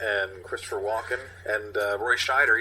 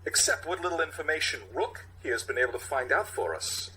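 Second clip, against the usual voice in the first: Walken impression; 4 semitones higher than usual. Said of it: "Captain Ronnie".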